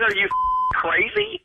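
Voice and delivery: high-pitched, outraged question; incredulous outrage. Real, not acted. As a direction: demand it in real disbelief. Outraged reaction to prank caller.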